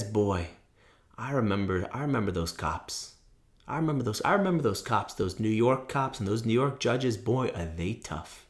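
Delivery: low, soft, ominous warning; tough Brooklyn father. Retold or imitated. Father warns son about New York cops and judges, low ominous voice. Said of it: "my father grew up in Brooklyn, kind of tough".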